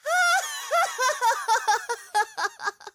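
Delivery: evil laugh. Acted. Villain gloating after hold.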